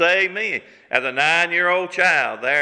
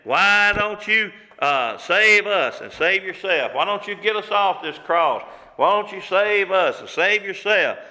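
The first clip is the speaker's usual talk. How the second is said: mild scolding; 2 semitones higher than usual. Acted. Thief on the cross challenging Jesus, mildly scolding. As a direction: press each question as a mild rebuke. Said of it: "is scolding Jesus".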